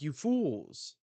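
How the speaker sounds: high, loud acted scolding; exasperated outburst. Wang Zhi berates the bombers, exasperated outburst. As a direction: cry out in mock exasperation.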